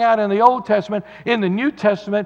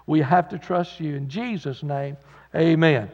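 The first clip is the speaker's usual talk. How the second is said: prayer. Acted. Pastor prays for congregation.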